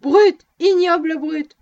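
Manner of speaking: very loud, high angry shout; yelling at the jeering crowd, very loud. A narrator's reading. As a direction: lash out at the crowd. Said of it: "les interpellait".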